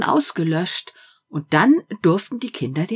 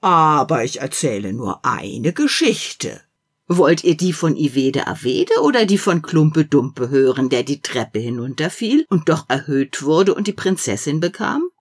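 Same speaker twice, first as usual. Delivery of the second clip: little fat man. Acted. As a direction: play a jolly little man. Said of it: "kleinen, dicken Mann".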